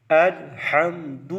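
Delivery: slow الحمد with the ل held, no bounce; lam held still. Shown as a demonstration. Teacher showing the correct reading, الحمد with a still ل. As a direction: draw out الحمد, stopping cleanly on the ل. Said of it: "اسی طریقے سے".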